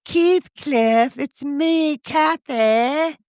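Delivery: high mock Aussie actress voice; Australian accent. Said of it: "the strong Aussie accent".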